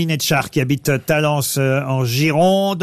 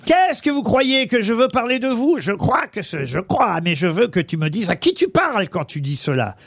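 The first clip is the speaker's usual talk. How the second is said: lightly voiced grumpy old man; a hint of a suspicious old miser; Harpagon old man voice; 3 semitones higher than usual. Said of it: "je vais vous faire le vieux pour Harpagon".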